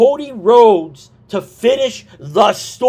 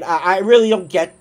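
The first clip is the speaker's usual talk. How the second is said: hiccuping mid-sentence; words broken by a hiccup; 3 semitones lower, faster than usual. Real, not acted. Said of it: "excuse me, I got the hiccups".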